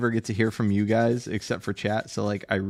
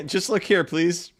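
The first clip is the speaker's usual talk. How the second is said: higher, sweetly insistent artist voice; mock tattoo artist; 7 semitones higher than usual. Tattoo artist coaxing a client to look, light mock sweetness.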